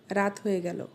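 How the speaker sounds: standard Bengali pronunciation. Shown as a demonstration. Teacher giving the standard version for comparison, standard Bengali. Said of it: "শুদ্ধ ভাষা versus সিরাজগঞ্জের আঞ্চলিক ভাষা".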